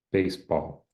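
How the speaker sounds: baseball with both syllables equal, no stress on either; even stress. Shown as a demonstration. Teacher showing a patient's equal-stress baseball. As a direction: say baseball flat, BASE and BALL the same weight. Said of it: "they don't have any different stress there".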